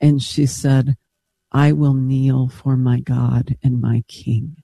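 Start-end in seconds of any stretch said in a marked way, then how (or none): 1.5-4.6 slow, measured retold vow; reverent conviction. Retelling a woman's answer to her priest, reverent conviction. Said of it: "with conviction, but reverence".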